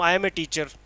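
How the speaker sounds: slow, carefully spaced English; slow clear English. Shown as a demonstration. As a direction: speak each word slowly so the class follows. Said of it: "मैं बोल रहा हूँ". (धीमी, साफ़ अंग्रेज़ी में बोलिए)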